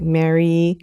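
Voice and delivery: "Mary" said slowly as MAIR-ee; "Mary" with an eh first vowel; variant pronunciation. Shown as a demonstration. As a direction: stretch "Mary" like the English name. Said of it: "We've heard different variants like".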